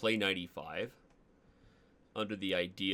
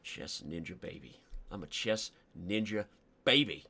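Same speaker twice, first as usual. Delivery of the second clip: put-on country accent; 4 dB louder than usual. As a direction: brag it like a country boy. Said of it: "These are the accents I'm not allowed to do".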